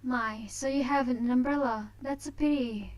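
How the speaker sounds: a hint of a smug heiress; haughty young lady. Voices Tina's teasing lines.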